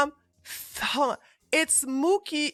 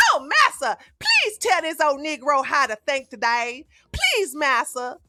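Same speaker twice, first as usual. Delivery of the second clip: mock servile slave voice; 3 semitones higher than usual. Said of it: "the way Massa wants me to think".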